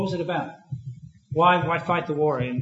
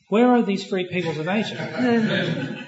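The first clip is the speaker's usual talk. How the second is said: ironic question; 4 semitones higher, much slower than usual. Real, not acted. Ironic rhetorical question, audience laughs.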